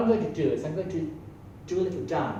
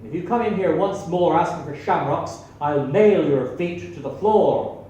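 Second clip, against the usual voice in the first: stern barman threat; 4 dB louder than usual. Acted.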